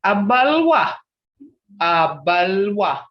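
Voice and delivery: teacher modelling Abalwa; model word. Shown as a demonstration. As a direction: clearly sound out Abalwa.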